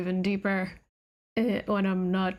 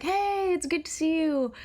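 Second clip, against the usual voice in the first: high-pitched voice; 6 semitones higher than usual. Retold or imitated. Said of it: "extremely high-pitched high sound".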